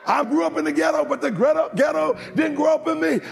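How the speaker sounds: high, loud shouted preaching; rally the congregation with each cry; full-force preaching. Acted.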